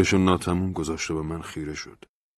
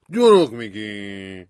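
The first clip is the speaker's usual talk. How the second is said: incredulous; 3 semitones higher, 8 dB louder, much slower than usual. A narrator's reading. Incredulous friend.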